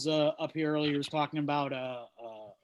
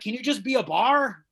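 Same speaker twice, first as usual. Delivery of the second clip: exasperated plea; 4 semitones higher, 4 dB louder than usual. Retold or imitated. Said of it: "It's like".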